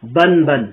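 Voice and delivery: بن بن said as a short clipped consonant sound; bare consonant sound. Shown as a demonstration. Teacher showing the letter's own sound, clipped. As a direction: say بن بن with the vowel cut off. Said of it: "اس حرف کی جو اپنی اصل آواز ہے".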